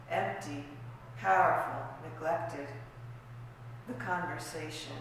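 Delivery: sparse recital, each word set apart; poetry reading. Acted. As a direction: let every word stand alone between pauses. Reads found-word poem aloud.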